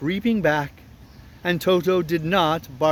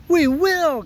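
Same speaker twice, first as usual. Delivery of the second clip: high, shrill squeak; shrill mice; 11 semitones higher, 4 dB louder than usual. Acted. Mice obeying their queen, shrill cry. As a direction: pipe up like a chorus of mice. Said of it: "in a shrill chorus".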